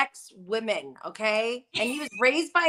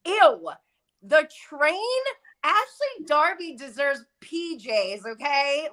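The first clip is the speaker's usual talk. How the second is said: disgusted; 5 semitones higher than usual. Retold or imitated. Reacting to a guest's gaffe, mock disgusted. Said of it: "even more disgusted".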